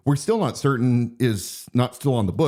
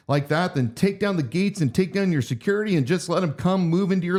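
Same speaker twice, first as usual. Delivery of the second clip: lightly dramatized reading, often pitched up; reading pastor's words; 6 semitones higher than usual. Acted. Reading the pastor's own words to listeners, lightly acted. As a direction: read his testimony out with lilting rises and falls.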